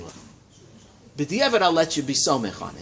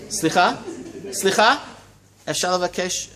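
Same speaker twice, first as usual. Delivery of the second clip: calling out; 4 semitones higher, 3 dB louder than usual. Real, not acted. Teacher calling the noisy class to order, raised voice. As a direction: call out over the room to get attention.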